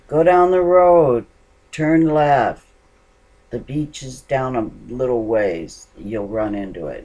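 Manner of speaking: loud, high shout that fades back down; yelling directions. Retold or imitated. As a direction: start by shouting the way to go, then ease off. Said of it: "finally I just yelled".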